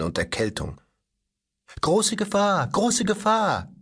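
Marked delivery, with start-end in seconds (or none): 1.8-2.7 high mechanical robot voice, mocking; a boy aping a fussy robot, pitched up; mimicking the robot. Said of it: "ahmte dabei die Stimme des Roboters nach". 2.7-3.7 high robot voice, slow and stretched; boy mockingly repeating the robot's warning, high and slow; drawn-out robot mimicry. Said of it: "ahmte dabei die Stimme des Roboters nach".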